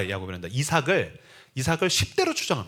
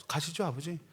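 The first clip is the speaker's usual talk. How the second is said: much softer, compliant murmur; meek obedient son; 10 dB quieter than usual. Retold or imitated. Isaac quietly agreeing to go with his father. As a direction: answer softly, too docile to object.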